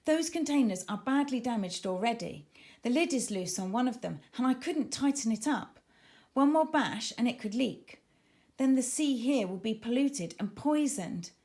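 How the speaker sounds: worried warning. Acted. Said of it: "This is terrible," she said".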